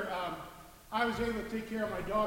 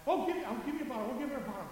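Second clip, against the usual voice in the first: fussing women; 4 semitones higher, much faster than usual. Retold or imitated. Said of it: "the women were all together".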